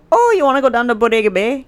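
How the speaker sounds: put-on drunk Michigan accent, laid on thick; sing-song, exaggerated Michigan accent. Shown as a demonstration. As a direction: ham up a Midwestern Michigan twang. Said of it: "Your accent when you get drunk".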